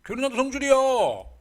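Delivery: loud, high-pitched mock outburst; temper flare-up. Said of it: "엄마가 왜 성질 낼까요". (성질내며 높게 외치기)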